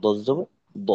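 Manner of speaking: no "wa" glide on দ; straight zabar. Shown as a demonstration. Teacher modelling the spelling drill, straight unsplit zabar. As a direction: spell out দ জবর দ, the last দ one straight syllable. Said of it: "সোজা রাখা".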